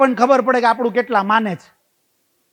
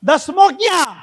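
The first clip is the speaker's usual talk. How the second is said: higher, puzzled કો દસમા દસમો ક્યાં; puzzled youth asking; 5 semitones higher than usual. Retold or imitated. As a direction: ask where the tenth one is, baffled. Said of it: "પેલો પૂછે જ". (મૂંઝાયેલો યુવાન પૂછે છે)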